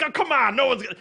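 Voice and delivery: imitated persuasive whine; coaxing. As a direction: wheedle them into spilling it. Imitating hosts coaxing a caller to tell.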